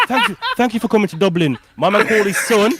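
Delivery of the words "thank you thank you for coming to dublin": laughing thanks. Retold or imitated. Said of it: "I go".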